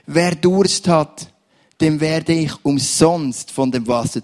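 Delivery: proclaiming the verse. Real, not acted. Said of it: "Ich möchte den Vers nochmal vorlesen".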